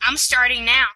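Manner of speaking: put-on Massachusetts accent. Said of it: "I will be attempting a Massachusetts accent".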